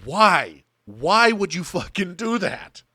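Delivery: loud, exasperated why; exasperated outrage. Real, not acted. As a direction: demand it in disbelief. Outrage at destroyed copies.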